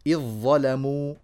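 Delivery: slow إذ ظلموا as "idh-dhalamu" with heavy dha; complete merging. Shown as a demonstration. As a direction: swallow the ذ of إذ into a doubled ظ. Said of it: "فيها إدخال وإدغام كامل". (إدغام كامل في "إذ ظلموا")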